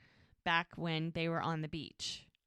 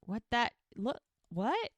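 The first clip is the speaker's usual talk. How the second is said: surprised; 2 semitones higher, 3 dB louder, slower than usual. Retold or imitated. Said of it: "he looks very surprised".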